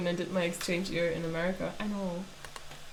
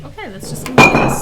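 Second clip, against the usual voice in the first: determined shout; 3 semitones higher, 15 dB louder than usual. Retold or imitated. Quoting the book.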